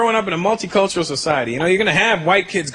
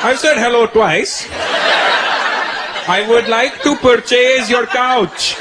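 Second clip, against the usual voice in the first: slow, deliberate, exasperated; impatient dad; 3 semitones higher, slower than usual. Acted. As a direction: spell it out slowly to someone who doesn't understand. Dad losing patience on phone.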